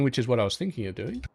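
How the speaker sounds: talking around something in the mouth; mouth full. Real, not acted. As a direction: speak with something stuck in your mouth. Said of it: "got something weird in my mouth".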